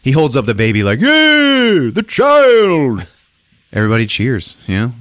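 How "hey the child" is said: high, loud drawn-out mock cry; triumphant proclamation. Hero holding up the baby, triumphant shout. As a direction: proclaim it to a whole crowd.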